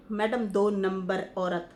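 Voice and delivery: slow, mock-scornful label; mildly disdainful imitation, words spaced out; imitated insulting tone. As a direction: drawl the insult, mimicking her tone. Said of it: "ये जो आपका tone था".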